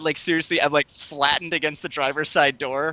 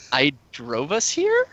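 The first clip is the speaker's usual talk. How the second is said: slow, drawn-out disbelieving question on "I drove us here?"; incredulous question; slower than usual. Retold or imitated. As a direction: stretch "drove us here" slowly, lift "here" into a question. Retold disbelief at forgetful date.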